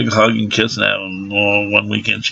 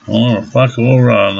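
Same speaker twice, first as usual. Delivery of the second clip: usual speaking voice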